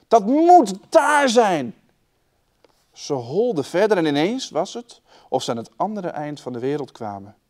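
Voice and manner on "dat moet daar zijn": high, loud and slow; excited boy calling. A narrator's reading. Jorkos telling his sister where to go, loud slow call. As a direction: drag it out, still calling. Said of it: "riep hij".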